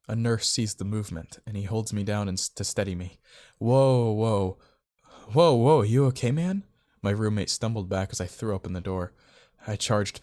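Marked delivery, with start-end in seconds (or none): 3.6-6.6 loud, high, drawn whoa; startled. Acted. Roommate knocked back by opening door, startled. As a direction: react in alarmed surprise.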